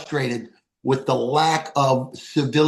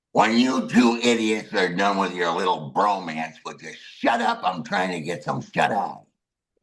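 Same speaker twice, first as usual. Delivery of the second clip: low, gruff voice of a woman woken up in the garbage; annoyed woman hushing two men who woke her; grumpy lady; 6 semitones lower than usual. Retold or imitated. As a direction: growl it down low like she's been woken. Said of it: "She goes".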